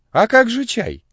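high, loud, astonished question; surprised. A narrator's reading. Father Christopher asking the boy about tea, surprised. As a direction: ask in open astonishment, pitch leaping up. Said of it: "удивился отец Христофор".

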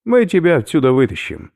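he is about to throw up; queasy skinhead. Acted. Oberführer warns professor he will vomit, loud and gruff.

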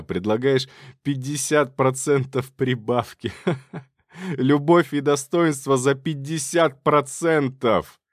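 bitter, slow outburst breaking into laughter; acted hysterical laugh, drawn-out indignant words. A narrator's reading. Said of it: "закатился истерическим смехом".

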